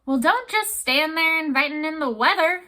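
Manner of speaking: a gruff sea captain bellowing at the door; canyon roar. Acted. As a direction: roar it out over the storm. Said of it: "in a voice like the roar of a canyon".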